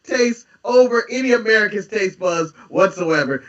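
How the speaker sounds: heated insistence. Real, not acted. Heated argument with cohost, shout.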